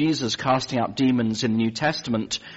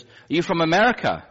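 higher, bright-eyed nurse voice; eager nurse; 7 semitones higher, 4 dB louder than usual. Retold or imitated. Nurse asking the patient about America, eager and high. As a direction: play the starstruck nurse, pitched up.

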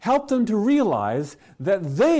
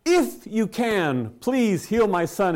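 pleading father; 3 semitones higher, much slower than usual. Retold or imitated. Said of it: "he said".

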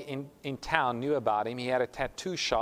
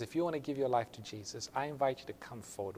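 gentle altar call; 6 dB quieter than usual. Retold or imitated. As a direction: imitate a preacher's quiet appeal. Preacher's altar call, retold.

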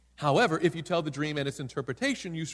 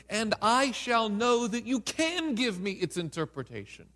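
louder, higher, slowing royal ultimatum; angry king; 4 semitones higher, 3 dB louder than usual. Acted. King threatening his astrologers, a raised, slow ultimatum. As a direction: lay down the decree like a furious king.

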